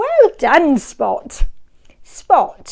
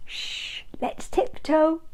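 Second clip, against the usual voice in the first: soft unvoiced shush; playful whispered shh; hushing whisper; 2 semitones higher, 9 dB quieter than usual. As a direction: hush the little listeners. Hushing children while searching.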